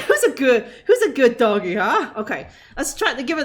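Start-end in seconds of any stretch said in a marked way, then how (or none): 0.1-2.1 laughing pet praise. Acted.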